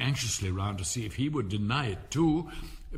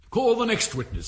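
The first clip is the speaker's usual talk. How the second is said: higher and louder summons; loud call; 11 semitones higher, 8 dB louder than usual. Acted. King calls the next witness loudly across the court. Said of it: "said the king".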